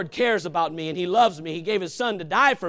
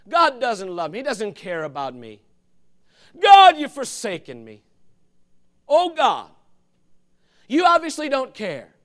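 mock complaint; 6 dB louder than usual. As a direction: wail at God like a forsaken believer. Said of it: "how much we whine".

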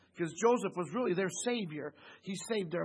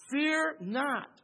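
Joseph's reassurance; 8 semitones higher, 4 dB louder than usual. Acted. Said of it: "Notice he said".

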